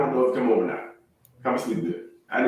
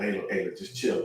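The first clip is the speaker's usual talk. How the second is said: softer, low-key request; gentler alternative phrasing; 3 semitones lower, 7 dB quieter than usual. Shown as a demonstration. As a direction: quietly talk a partner down. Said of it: "He could have said it differently".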